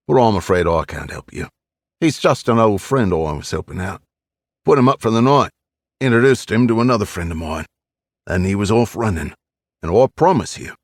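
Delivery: put-on old East End Cockney voice; gruff old Londoner, Cockney; Cockney accent. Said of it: "with an East End Cockney accent".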